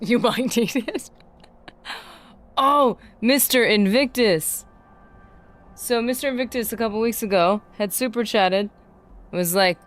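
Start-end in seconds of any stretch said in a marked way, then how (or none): 2.6-4.6 excited thanks. Real, not acted. Thanking a donor.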